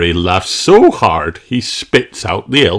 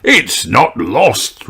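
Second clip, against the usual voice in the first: slow reply; 6 semitones higher, much slower than usual. A narrator's reading. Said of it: "replies Redbeard".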